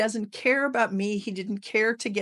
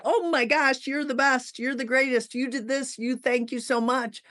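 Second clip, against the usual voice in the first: higher, over-the-top thrilled praise; mock gushing praise; 5 semitones higher than usual. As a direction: ham up fake delight and flattery. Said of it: "unless you do the whole".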